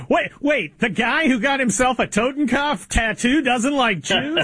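high-pitched feigned disbelief with a laugh; laughing, incredulous sarcasm; sarcastic mock surprise. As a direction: act amazed at the blindingly obvious. Sarcastic feigned shock at obvious news.

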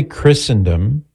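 Christendom said with no T, Chrissen-dum; silent T. Shown as a demonstration. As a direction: leave the T out of Christendom. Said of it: "with a silent T".

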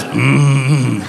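closed-mouth drawn-out hum; wordless phone noise. Retold or imitated. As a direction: imitate a clueless man humming into the phone. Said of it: "answers the phone with a noise".

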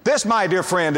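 ordinary talk

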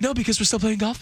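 put-on girlfriend voice. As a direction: imitate a guy cooing to his girlfriend. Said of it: "girlfriend voice where they go higher".

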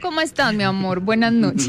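butter up the caller with a touch of a laugh; fawning sweetness. Real, not acted. Host greets a scolded caller to make amends, fawningly sweet. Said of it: "Tan lambona".

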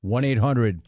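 slow, measured phone number read; radio announcer read. Acted. Radio host slowly reading the call-in number to listeners.

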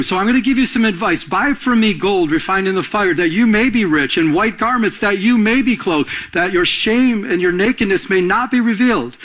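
high, fervent preaching at full force. Acted. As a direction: lift the voice and press the counsel home. Preaching to the congregation.

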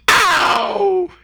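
high mock yelp. Reacting to bypass joke.

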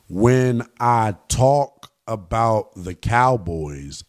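painfully slow, low and deliberate; mock-patient, word by word; very slowly. Shown as a demonstration. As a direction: spell it out slowly for slow listeners. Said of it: "I'm going to speak very slowly".

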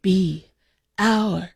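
spaced out, pause after each word; word-by-word invitation. Acted. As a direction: lift the pitch on the final word. Playful song-title invitation, word by word.

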